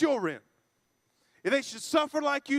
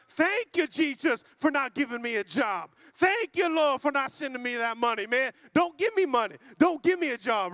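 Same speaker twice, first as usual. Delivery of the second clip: mock thanksgiving. Mocks fake thanks to God.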